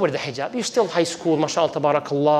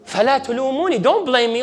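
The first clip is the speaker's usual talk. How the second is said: devil's voice; 5 semitones higher, faster than usual. Acted. Devil disowning blame.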